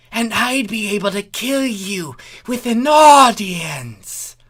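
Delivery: delighted at the thought of murder; brightening villain glee. Acted. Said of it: "face brightening".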